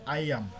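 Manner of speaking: আইয়াম said as "eye-am", silent b; pronunciation demo. Shown as a demonstration. Teacher shows students how iamb is pronounced, clear pronunciation demo. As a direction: say আইয়াম ending on the m sound. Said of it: "এটার উচ্চারণটা হচ্ছে".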